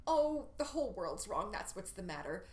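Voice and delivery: "Oh" lifted, then "that's what's the matter" brushed off; waving away her own confusion; dismissive. Shown as a demonstration. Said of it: "her final line".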